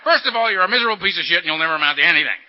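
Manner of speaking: loud, hammed-up nagging head voice; a mock menacing voice in his head; inner critic voice. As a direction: bark it like a cruel inner boss. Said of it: "his head would say".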